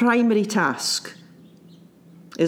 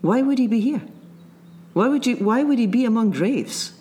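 angel's question; 3 semitones higher than usual. Retold or imitated. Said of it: "the two men say".

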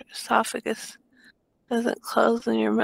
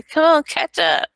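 raised urging shout, higher and louder; yelling; 5 semitones higher, 6 dB louder than usual. Pretend. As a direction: urge your body on with a yell. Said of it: "you wanna yell at your body".

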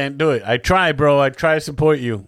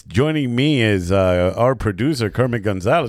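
radio host voice. Pretend. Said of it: "do your best radio voice".

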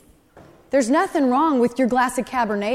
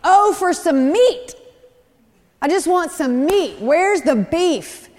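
louder, higher, drawn-out mock whine; hammed-up craving, dragging out the words; mock complaining; 3 semitones higher, 4 dB louder, slower than usual. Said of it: "also began to complain".

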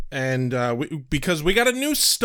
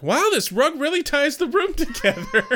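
dude voice; 12 semitones higher than usual. Retold or imitated. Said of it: "being like".

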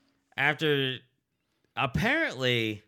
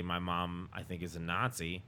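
muttered mock report; 7 semitones lower, 10 dB quieter than usual. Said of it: "just say".

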